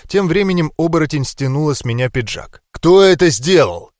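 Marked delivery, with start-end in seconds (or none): 2.7-3.9 menacing growl. A narrator's reading. Brother demands who wounded the hero, growling. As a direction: growl it out as a threat. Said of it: "недобро прорычал Арнольд".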